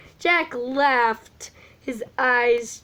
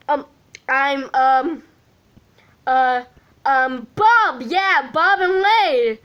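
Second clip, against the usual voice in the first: stammering, louder, halting between fillers; nervous hesitation; 2 semitones higher, 5 dB louder than usual. Acted. Sean nervously naming Bob and Wade. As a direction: stall nervously before naming them. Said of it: "Sean gulped ... nervousness".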